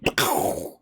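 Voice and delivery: explosive unvoiced "pkoo" noise; imitated door burst. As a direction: mouth the blast of a door slamming open.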